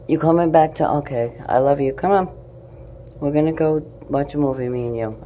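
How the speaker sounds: coaxing the cat. Real, not acted.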